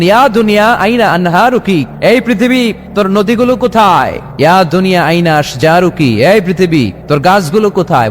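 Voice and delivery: ringing call to the earth. Acted. Allah calling out to the earth, summoning. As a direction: summon the world with a preacher's call. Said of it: "পৃথিবীকে একটা ডাক দিবেন".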